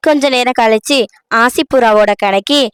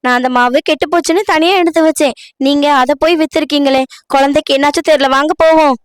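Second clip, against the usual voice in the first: higher-pitched, worried reproach; alarmed; 4 semitones higher, faster than usual. Acted. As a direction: blurt it out in alarm at the mistake. Wife alarmed that spoiled flour sold. (பதற்றமான உயர்ந்த குரல்)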